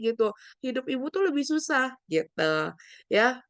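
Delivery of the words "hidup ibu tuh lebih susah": mildly dismissive, pitched higher; higher, mock-dismissive comparison; judgmental one-upping. Shown as a demonstration. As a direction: act out a judgmental comeback. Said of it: "kita tidak melakukan judgmental".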